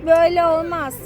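slow, low groan of dismay. Real, not acted. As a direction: sigh it out, disappointed. Daughter throws bike away.

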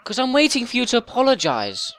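lightly voiced indignant younger brother; put-on little brother. Little brother threatening a rude player, mildly indignant put-on voice. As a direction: play an aggrieved little brother demanding an apology.

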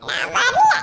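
put-on a tiny child saying no; small boy refusing grandma in a high laughing voice; toddler refusing.

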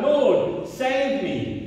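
Peter calling out as he sinks; a moderate urgent plea; cry for help. A narrator's reading. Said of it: "he cried out".

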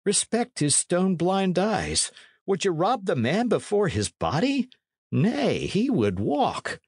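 high, reproving character voice; Dick, reproachful. A narrator's reading. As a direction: lift the pitch and appeal to his conscience.

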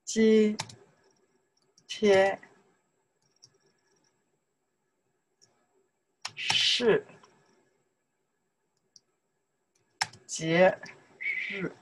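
isolated syllables with long pauses. Shown as a demonstration. Teacher sounding out a sentence, syllable by syllable. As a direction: give each syllable on its own.

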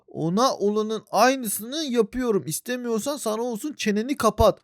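slow, soft and low threat; lightly voiced sinister threat; menacing villain voice. Gamer voicing the attacker's quiet threat. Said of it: "neler neler yapıyor".

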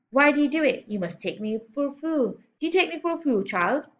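lightly voiced outraged headmistress; bullying headmistress, indignant. Headmistress berates small girl for lying, indignant.

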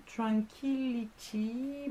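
slow, careful English with a heavy French accent; reading English labels with a thick French accent. Real, not acted. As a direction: spell out the English brand names in a French accent. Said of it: "quelle horreur cet accent".

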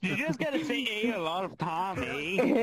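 playful Canadian accent with tagged-on "eh?". Shown as a demonstration. Coaching a friend in a Canadian impression, playful Canadian accent. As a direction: put on a little Canadian accent. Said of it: "you make a little Canadian accent".

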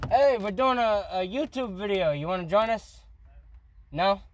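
talking around a cigarette; cigarette in mouth. Real, not acted. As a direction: lips gripping a cigarette. Seen 0: Bearded man's face shows an unlit cigarette held between lips throughout.

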